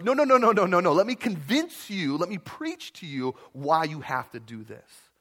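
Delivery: pushy preacher. Retold or imitated. Preachy person beating down listener.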